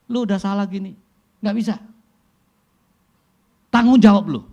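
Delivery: high, loud angry demand; angry driver. Retold or imitated. Preacher imitating a furious driver, loud and scolding. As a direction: scold the other driver hard.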